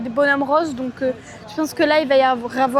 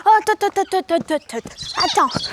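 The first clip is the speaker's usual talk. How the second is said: voicing the goats; 6 semitones higher than usual. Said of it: "ils vont dire".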